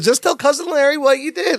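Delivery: high-pitched coaxing imitation; put-on friendly. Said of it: "He's trying to be all friendly".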